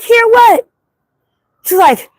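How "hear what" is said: retold surprise. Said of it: "I'm like".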